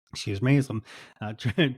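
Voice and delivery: choking and coughing on words. Real, not acted. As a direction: talk through a choke, laughing it off. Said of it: "choking on that".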